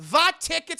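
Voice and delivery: high, loud startled question. Retold or imitated. Officer caught off guard by Indy, loud and high. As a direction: jump at the question.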